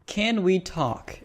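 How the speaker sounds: slow, falling mock of "Can we talk?" with weight on "can"; sarcastic slow "Can we talk?"; mocking repeat. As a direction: drag out "Can we talk?" slowly, dropping at the end. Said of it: "he just goes on and says".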